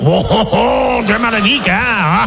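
slow hammed-up ho ho ho laugh; phony French laugh. Shown as a demonstration. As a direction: fake posh laugh to close the bit. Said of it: "Throw that phony French laugh in at the end".

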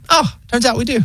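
high, breezy robot operator; weirdly chill AI voice. Retold or imitated. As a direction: sound oddly relaxed like a phone bot. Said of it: "it's so weirdly chill".

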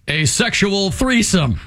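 slow, deliberate news anchor read; newscaster voice. Retold or imitated. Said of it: "They never lose the newscaster voice".

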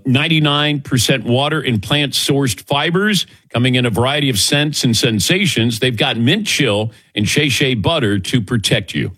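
upbeat radio ad read. Acted. Host slides into a live ad read in his show voice. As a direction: sell the product to listeners.

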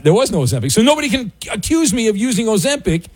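rising pitch, flustered protest; hurried, high-pitched self-defense; flustered and defensive. Real, not acted. Host defends his weight loss to caller, flustered and rising.

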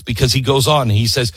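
ordinary talk

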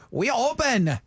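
mock Asian accent. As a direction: imitate a shop sign in an Asian accent. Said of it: "It says it out, like, in, in the accent".

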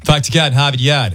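put-on Boston accent. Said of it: "There it is".

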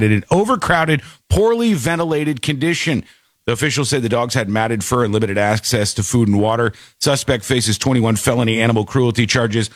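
brisk, even news-report read. Real, not acted.

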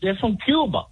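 put-on Hispanic accent. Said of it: "your Mexican impersonation".

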